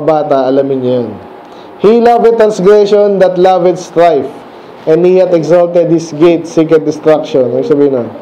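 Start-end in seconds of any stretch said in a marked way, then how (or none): 1.8-7.5 slow, measured Bible reading; solemn verse read aloud to the children; scripture reading. Acted. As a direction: read the verse slowly, like from the pulpit.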